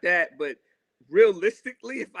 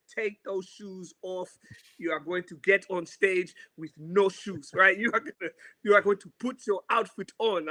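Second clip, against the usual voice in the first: mom's orders; 4 semitones higher than usual. Retold or imitated. Mom telling her son to go onstage barefoot, mild sternness. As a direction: lightly voice a mother laying down the law.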